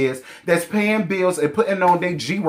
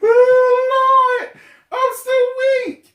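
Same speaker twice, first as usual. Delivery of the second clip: real laughter; 4 dB louder, slower than usual. Real, not acted. Cracking up after the quote.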